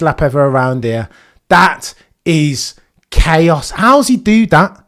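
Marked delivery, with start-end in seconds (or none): 1.5-3.7 awed, drawn out. Real, not acted. Awed reaction to record lap.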